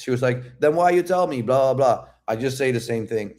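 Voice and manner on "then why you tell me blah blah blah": higher-pitched mock complaint; imitating annoyance. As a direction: retell her miffed protest. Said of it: "she was still pissed".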